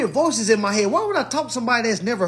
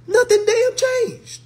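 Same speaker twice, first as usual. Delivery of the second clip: exasperated; 5 dB louder, much slower than usual. Real, not acted. Exasperated rant about therapy.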